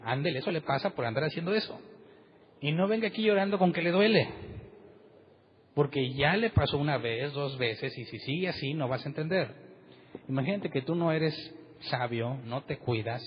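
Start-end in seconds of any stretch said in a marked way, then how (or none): 0.0-9.5 stern scolding parent. Retold or imitated. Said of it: "yo le voy a decir".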